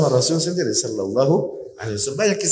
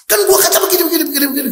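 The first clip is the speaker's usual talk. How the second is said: nagging wife; 14 semitones higher, much faster than usual. Retold or imitated. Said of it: "Begitu ngomel".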